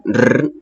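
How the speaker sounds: slow sustained trilled rrr; rolled r sound. Shown as a demonstration. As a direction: draw out a long rolling rrr slowly. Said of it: "suena así".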